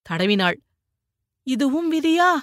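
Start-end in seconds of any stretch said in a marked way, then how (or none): 1.5-2.3 high, tearful wail of despair; a wife weeping over fate; crying. A narrator's reading. Wife weeping to her stricken husband, high tearful lament. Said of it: "என்று அழுத அவளை".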